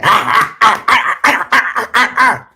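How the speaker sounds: high, loud karate chop cries; mock martial-arts yells as he strikes. Father karate-chopping sleeping sons with loud mock yells. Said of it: "I went".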